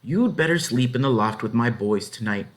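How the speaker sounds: lightly voiced farmer; farmer's voice. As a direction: speak as the kindly farmer offering a bed. Farmer character voice.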